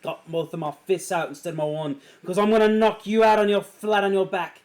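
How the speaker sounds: put-on Scottish brogue. Arthur taking on Lucius, Scottish brogue. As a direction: threaten him in a thick Scottish accent. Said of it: "There's the Scottish brogue".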